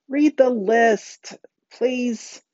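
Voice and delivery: high, drawn-out impatient plea; impatient shout. A narrator's reading. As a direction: half-shout it, stretching the words impatiently. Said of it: "Connor shouted impatiently".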